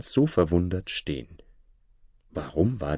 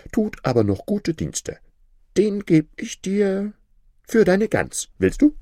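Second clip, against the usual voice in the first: lightly raised, wheedling grinder voice; crafty grinder; 7 semitones higher than usual. Acted. Grinder talking Hans into the trade, wheedling. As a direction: sell him the stone, persuasive.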